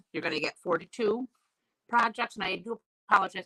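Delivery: talking while chewing a cough drop. Real, not acted. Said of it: "chewing on a cough drop here".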